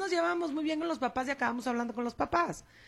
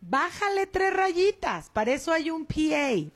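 drawn-out, higher-pitched scolding; mock telling-off; 6 semitones higher, slower than usual. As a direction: slowly tell another parent off, pitch raised. Acted telling-off of another parent.

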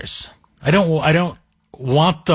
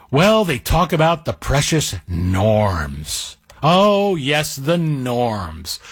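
sarcastic; much slower than usual. Acted. Mocking the judges' precious norms.

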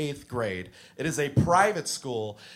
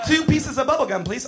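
mock customer; 9 semitones higher, 4 dB louder than usual. Paying with tiny check.

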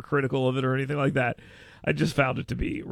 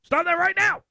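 mock scolding; 9 semitones higher than usual. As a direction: scold them, building to Stop that right now. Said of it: "He'd be like".

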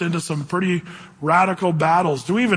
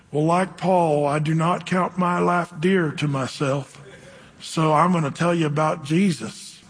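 southern drawl; slower than usual. Retold or imitated. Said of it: "talked really slow like this with a southern drawl".

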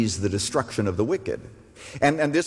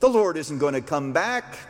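mock scoffer. Preacher voices scoffers complaining about the delay, mildly mocking. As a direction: put on a mildly scornful doubter. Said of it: "the scoffers, rather than saying".

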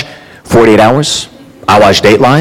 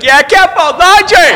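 goofy dumb husband; 13 semitones higher than usual. Retold or imitated. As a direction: play the idiot husband, shouting happily. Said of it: "He's like".

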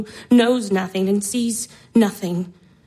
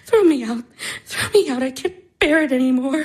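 desperate outburst; 2 semitones higher than usual. Acted. Irina's outburst of despair.

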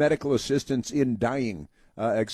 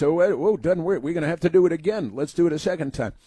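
mocking officials; 4 semitones higher, faster than usual. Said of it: "and then it's".

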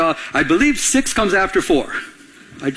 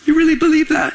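higher, incredulous mock of a scoffer; mocking disbelief; 9 semitones higher than usual. Scoffing friend mocks a believer, incredulous. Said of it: "And they mock us".

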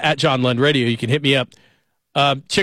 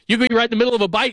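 laughing; 7 semitones higher, much faster than usual. Real, not acted. Laughing while telling funny story.

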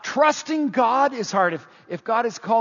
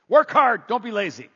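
louder, higher punch on Work hard; emphatic repeat; 3 semitones higher, 3 dB louder than usual. Shown as a demonstration. Pastor drilling the Proverbs motto into the congregation, louder. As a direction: hammer the slogan home. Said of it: "the Proverbs ones were all about".

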